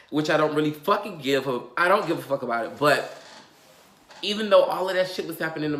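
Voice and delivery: heated and loud, speeding up as she vents; lashing out at the people who made videos about her; angry rant. Real, not acted. Venting at YouTubers who made videos about her, angry and loud.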